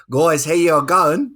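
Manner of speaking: slow, drawn-out mock-Australian greeting, rising at the end; bad Australian accent. Host greeting his Australian guest, bad Australian accent. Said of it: "really bad Australian accent".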